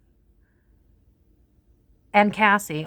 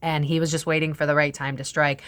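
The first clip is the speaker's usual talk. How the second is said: normal talking voice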